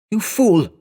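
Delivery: high-pitched, strained rebuke; shocked outburst, pitched far up. A narrator's reading. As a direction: gasp it out in appalled disbelief. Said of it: "shocked voice".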